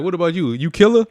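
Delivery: high, loud mock questioning; imitated interviewer. Retelling the interviewer quizzing kids, hammed-up questioning. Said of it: "He was like".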